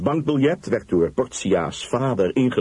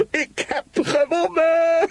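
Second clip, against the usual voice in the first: very high, drawn-out cry of victory; triumphant shout; slower than usual. Acted. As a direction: shout out the win, slow and soaring. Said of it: "schreeuwde hij". (triomfantelijk uitgeschreeuwd, hoog en langgerekt)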